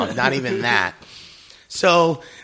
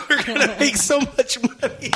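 giddy excitement; 11 semitones higher than usual. Retold or imitated. Telling wife excitedly, laughing.

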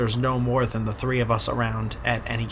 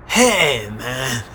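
put-on Russian accent. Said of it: "this is what I hear in my head".

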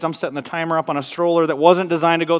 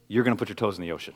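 determined father; 7 semitones lower, 7 dB quieter, faster than usual. Retold or imitated. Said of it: "My vision ... was".

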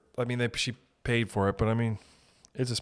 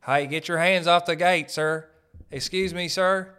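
higher-pitched, insistent Texan guard; Texas gate guard; 6 semitones higher, 4 dB louder than usual. Acted. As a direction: order them off like a Texas gatekeeper. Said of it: "Lot of Texas horse riders over there".

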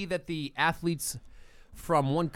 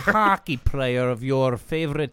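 fake Russian accent; 4 semitones lower than usual. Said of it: "What accent is this, Mike?".

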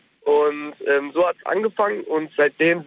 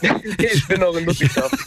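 crackly cordless phone; 3 semitones higher than usual. Real, not acted. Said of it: "Ich höre dich richtig schlecht gerade".

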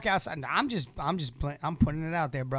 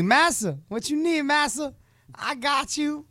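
high, eager-to-please servant put-on; hammed-up servile pleading, pitched high; mock servile voice; 9 semitones higher than usual. Co-host playing a servant rushing to help master, mock servile.

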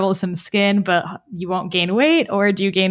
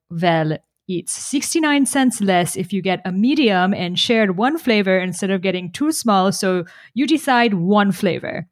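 put-on Persian accent. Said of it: "in his, like, Persian accent".

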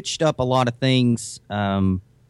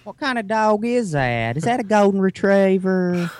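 put-on Tennessee accent; 10 semitones higher than usual. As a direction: imitate a local in Tennessee asking about the dog. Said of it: "no idea what the hell they were saying".

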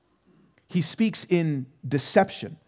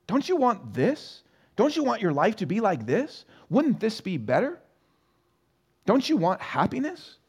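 coaxing Satan; 6 semitones higher than usual. Retold or imitated. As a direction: lure them in with each question. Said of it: "Satan will give you".

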